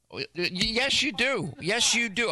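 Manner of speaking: high, insistent "yes you do"; insistent retort. Real, not acted. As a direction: press back hard at James. Arguing with James on air.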